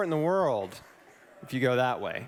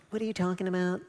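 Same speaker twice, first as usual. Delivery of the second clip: higher, puzzled imitation of his wife; wife's baffled voice; 4 semitones higher, faster than usual. Wife on the phone, imitated as baffled. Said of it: "That's how she talks".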